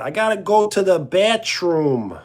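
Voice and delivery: hammed-up Long Island talk; Long Islander accent. Streamer imitating how they talk, in a Long Island accent. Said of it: "how do they talk? Like, uh".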